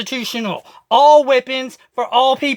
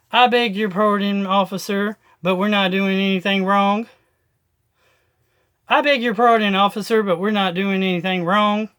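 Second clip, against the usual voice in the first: polite Christian way; 3 semitones lower than usual. Retold or imitated. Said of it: "said it more like, um, Christian way".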